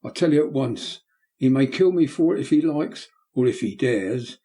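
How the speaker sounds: put-on excited boy. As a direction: fearless boy crying out to the men. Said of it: "becoming more and more excited".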